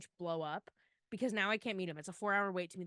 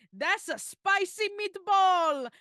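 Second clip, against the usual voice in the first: Grinch impression; 10 semitones higher, 8 dB louder, slower than usual. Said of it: "There was one time where he went".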